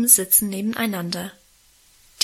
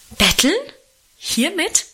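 indignant; 8 semitones higher than usual. A narrator's reading. Mother rebuking father for calling it begging, indignant outcry. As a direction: scoff at the word Betteln? in outrage. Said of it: "entgegnete Mutter entrüstet".

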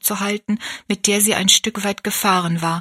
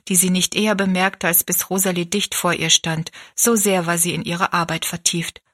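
ordinary delivery, nothing marked

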